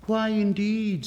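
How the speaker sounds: a hint of a fluttering butterfly. Butterfly asks.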